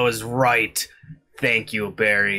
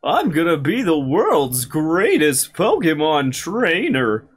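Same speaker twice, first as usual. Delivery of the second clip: boastful rival voice; 5 semitones higher, 6 dB louder than usual. Acted.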